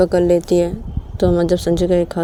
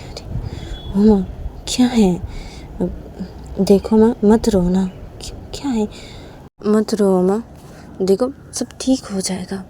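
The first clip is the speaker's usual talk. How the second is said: tender motherly hushing; gentle consoling; 3 semitones higher than usual. Acted. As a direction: soothe someone who is crying. Mother comforts crying Uma.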